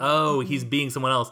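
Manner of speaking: normal talking voice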